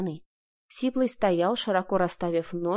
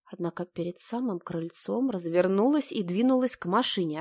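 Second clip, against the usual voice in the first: ordinary delivery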